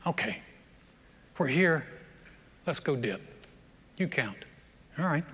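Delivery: low, soft, resigned mumble; reluctant compliance. Acted. Master at the river agreeing to dip, quiet and reluctant. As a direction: give in quietly, in short halting phrases.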